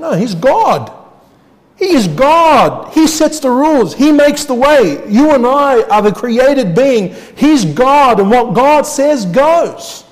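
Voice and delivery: high, loud, drawn-out proclamation; forceful preaching. Real, not acted. Preacher proclaiming God's authority to the congregation, forceful. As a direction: preach it with rising force and long stresses.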